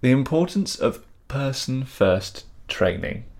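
careful slow. Shown as a demonstration. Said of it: "I need to get this right".

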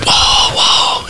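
breathy, hushed gasp of awe; awed whoa. Retold or imitated. Watching the cloud demon turn into a lion, hushed awe. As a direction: let it slip out in wonder.

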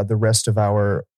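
talking through a held-in burp; words pushed out around a burp. Real, not acted. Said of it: "held it in and just talked through it".

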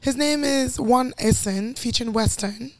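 put-on British announcer; slightly drawn-out mock British voice; British accent. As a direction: introduce the act in a London accent. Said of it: "that was your British voice".

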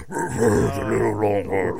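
slow guttural growl of a jingle; death metal growl. Pretend. Jingle sung as a slow death metal growl. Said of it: "jingle ... a singer".

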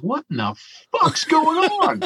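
high, slow yelled question; retold yell. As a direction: yell it up to the other boat. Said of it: "he yells up there and he goes".

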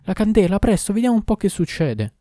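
loud, high-pitched call for help; urgent shout. A narrator's reading. Startled doctor calls to his maid for a candle, shouting. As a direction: shout the order up to the servant. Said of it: "gridò da capo alla serva".

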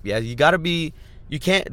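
ordinary talk, nothing marked

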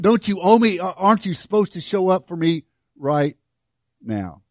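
a self-righteous believer pressing God; indignant complaint. Retold or imitated. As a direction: demand what you think you're owed. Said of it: "I say it in attitude".

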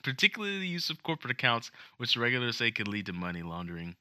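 Trump voice. Pretend. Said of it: "no, I'm kidding".

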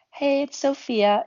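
high, slow falsetto greeting. Shown as a demonstration. Voice-acting hobbyist showing a friend their range, in falsetto. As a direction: lift the voice up into a drawn-out falsetto. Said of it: "putting on that falsetto".

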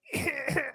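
short, soft wheezy bursts; mock wheezing noise; imitated silly noise. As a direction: mimic someone's pointless little noises. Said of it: "make some noise every now and then. Like".

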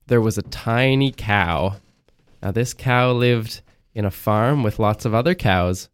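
slow, flat storytelling voice; plain bedtime story read; fairy tale opening. Shown as a demonstration. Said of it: "tell me a story".

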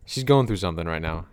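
low, soft put-on voice; deep voice. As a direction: keep the voice dropped low. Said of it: "her voice dropped a couple octaves there".

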